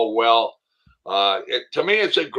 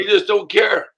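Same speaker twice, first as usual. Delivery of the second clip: gravelly Motown voice impression; 8 semitones higher than usual. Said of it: "He's got that voice".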